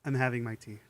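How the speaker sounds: slurping tea while talking; sipping hot tea. Real, not acted. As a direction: talk between sips of hot tea. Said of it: "Sorry for the slurping".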